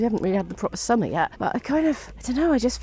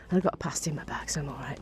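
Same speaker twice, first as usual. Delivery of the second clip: hushed whisper to the camera; softly whispered confession; whispered aside; 6 semitones lower, 10 dB quieter, faster than usual. Real, not acted. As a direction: whisper it like a secret snack.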